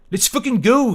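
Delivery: high, loud, desperate Scottish snap. Acted. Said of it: "he snapped desperately".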